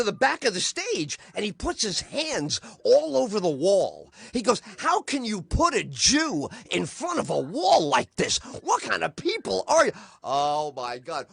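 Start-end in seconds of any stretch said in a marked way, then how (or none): 4.8-9.9 mock-outraged rant, swooping pitch; hammed-up indignation at the audience; angry outraged comic. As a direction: imitate an indignant comic's tirade. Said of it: "very expressive and very loud".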